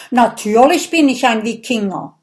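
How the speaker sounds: quick, a touch indignant; indignant Viking. Acted. Viking answers Mathilda, a touch indignant. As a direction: brush the question off proudly.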